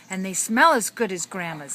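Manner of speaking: put-on excited kid voice. Kid voiced in read story.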